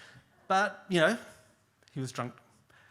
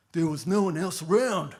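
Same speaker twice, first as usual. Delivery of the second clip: louder, emphatic answer; insistent trucker; 3 semitones higher, 9 dB louder than usual. Retold or imitated. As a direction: hammer home that nobody was there. Truck driver repeats his answer.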